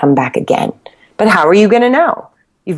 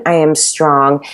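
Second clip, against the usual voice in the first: slow affirmation; 3 semitones lower, slower than usual. Shown as a demonstration. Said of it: "So when you're saying".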